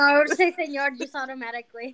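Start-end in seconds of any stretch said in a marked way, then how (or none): 0.5-0.9 "senor" as a Spanish speaker says it; Spanish accent. Shown as a demonstration. Explaining she says it automatically, Spanish accent. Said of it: "I know she can say senor".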